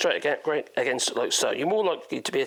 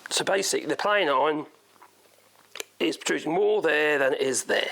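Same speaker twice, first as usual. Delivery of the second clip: strained, tiring voice; hoarse from talking too long; voice going hoarse. Real, not acted. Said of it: "I'm losing my voice already".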